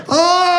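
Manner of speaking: high, held "oh" as a silly impression; mock impression cry. Comic showing Alan Rickman his impression, high held cry. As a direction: let out one high drawn-out oh. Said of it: "I can do an impression of you".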